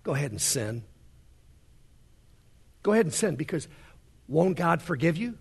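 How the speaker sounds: a hint of the devil whispering temptation; lightly voiced sly tempter; devil coaxing. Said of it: "The devil comes along and says".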